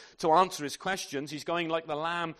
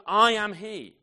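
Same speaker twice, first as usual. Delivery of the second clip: bold divine declaration; 5 semitones higher, 9 dB louder, slower than usual. Acted. Jesus' words read aloud.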